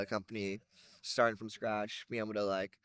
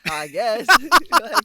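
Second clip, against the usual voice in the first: higher, louder, through real laughter; laughing; 12 semitones higher, 15 dB louder than usual. Real, not acted. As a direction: laugh your way through the words. Laughs at own vague answer.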